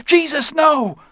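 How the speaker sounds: high, loud cry of horror; horrified cry. Acted. Onlooker sees Barry thrown over the rail, horrified high cry. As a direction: cry out as if watching a friend fall. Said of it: "Someone in the room cried out".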